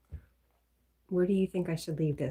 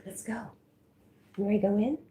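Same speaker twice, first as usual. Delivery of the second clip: higher, louder sing-song to a pet; dog talk; 5 semitones higher, 7 dB louder, faster than usual. Real, not acted. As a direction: coax the dog inside brightly. Talking sweetly to dog.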